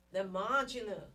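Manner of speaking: teacher stressing "marginal" so it sticks; emphasis on marginal. Shown as a demonstration. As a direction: punch the word "marginal" for the class. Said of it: "I'm emphasizing the word marginal".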